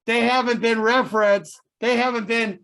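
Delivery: fiery TV preacher sermon. Acted. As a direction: preach to the congregation, building up. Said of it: "we have the Reverend Moses".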